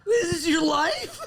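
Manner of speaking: laughing. Real, not acted. Friend laughing at the story.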